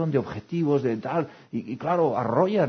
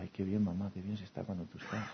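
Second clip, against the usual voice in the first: content sigh; 2 semitones lower, 10 dB quieter than usual. Retold or imitated. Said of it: "la gente llega a casa y dice".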